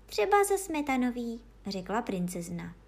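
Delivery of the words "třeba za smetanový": high little princess voice; reply pitched well up, girlishly. Acted. Princess picks a cake, high-voiced.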